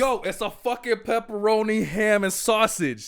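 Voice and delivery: high, exasperated retold argument; reenacted loud insistence, last words drawn out; really loud. Customer explaining the order to pizza guy, loud and exasperated. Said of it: "really loud".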